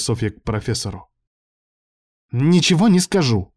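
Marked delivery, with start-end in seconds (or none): 2.3-3.5 higher, louder snapped refusal; snapping laptop. A narrator's reading. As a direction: bite back stubbornly. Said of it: "огрызнулся ноутбук".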